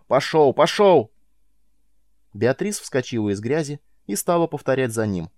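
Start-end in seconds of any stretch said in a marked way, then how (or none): 0.1-0.5 shouted command. Acted. First of repeated command. 0.5-1.1 second "Пошёл" higher and falling hard; louder shouted command. Acted.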